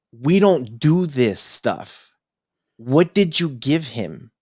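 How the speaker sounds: slow, deliberate scolding; pissed-off wife. Retold or imitated. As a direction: imitate a wife's controlled anger, each word weighed. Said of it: "She was pissed".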